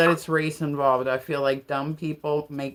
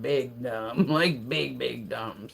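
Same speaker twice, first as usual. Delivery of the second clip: mock-weighty emphasis; 5 semitones lower, 4 dB quieter, slower than usual. Real, not acted. Contrasts big dumb with little dumb.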